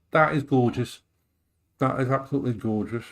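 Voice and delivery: talking through a mouthful of food; chewing while speaking; mouth full. Real, not acted. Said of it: "speaking with my mouth full".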